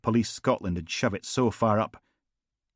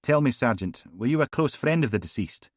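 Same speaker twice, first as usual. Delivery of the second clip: curt, higher interrogating inspector; clipped questioning; 5 semitones higher, 3 dB louder than usual. Acted. Inspector coldly questions Logan about the dead gangster, clipped. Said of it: "voice clipped".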